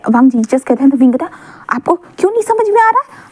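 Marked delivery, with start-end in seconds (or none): 1.7-3.3 high-pitched frustrated demand; whiny high demand to his boyfriend; exasperated outburst. A narrator's reading. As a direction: push it up high, fed up he won't get it.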